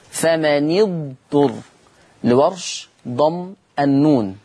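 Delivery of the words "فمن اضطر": slow فمن اضطر as "fama-ni-dturr"; short i on the nun of فمن, joined to اضطر; kasra on the nun. Shown as a demonstration. Teacher reads out the word under study, slow "fama-ni-dturr" in فمن اضطر. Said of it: "حفص يقرأ فمن اضطر بكسر النون".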